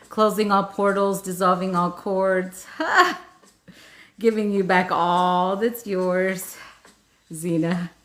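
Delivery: measured ritual chant; ritual affirmation. Real, not acted. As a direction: recite it like an energetic cord-cutting. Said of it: "I'm gonna do that a couple more times".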